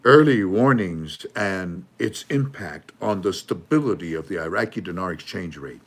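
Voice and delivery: slow read title. Shown as a demonstration.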